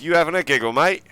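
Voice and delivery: a hint of Cockney, half-done; lightly Cockney "You having a giggle, mate?" with "mate" rising. Shown as a demonstration. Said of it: "Got to say it in that voice".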